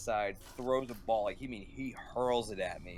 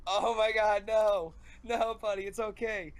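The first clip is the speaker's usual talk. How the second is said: high-pitched panicked consoling; acted freak-out; 9 semitones higher, 4 dB louder than usual. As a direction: re-enact frantic reassurance, pitched way up. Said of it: "I'm freaking out".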